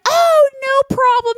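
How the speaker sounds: high, drawn-out breezy reassurance; playing it super cool. Hosts telling the assistant it's fine, playing super cool. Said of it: "we're gonna be super cool about this".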